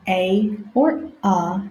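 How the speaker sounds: "a or a" as ay then uh; two ways to say a. Shown as a demonstration. Teacher showing both sounds of "a". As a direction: say "a" long as ay, then short uh. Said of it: "pronunciation of".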